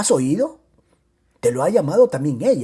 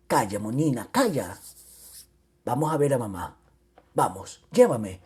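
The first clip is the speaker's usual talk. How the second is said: put-on soothing a child; 4 semitones lower than usual. Soothing a little girl.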